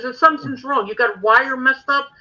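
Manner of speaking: mock Dominic. Dominic voiced in ghost story.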